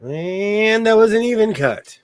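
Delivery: slow, high hushed announcer; golf commentator. Pretend. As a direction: call it like a golf broadcast. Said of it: "I like that".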